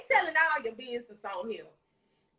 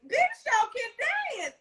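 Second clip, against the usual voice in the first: surprised; 11 semitones higher, slower than usual. Retold or imitated. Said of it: "I was like".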